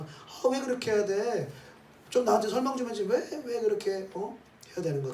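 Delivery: high-pitched, whiny mock grumble; acting out a frustrated believer's protest; complaining. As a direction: plead for an explanation, pitched high. Acts out a puzzled believer complaining.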